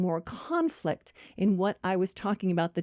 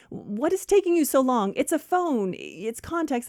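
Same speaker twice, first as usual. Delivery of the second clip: higher, impatient demand; exasperated friend; 5 semitones higher than usual. Acted. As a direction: nag her with mock exasperation. Acted quarrel over slow phone call.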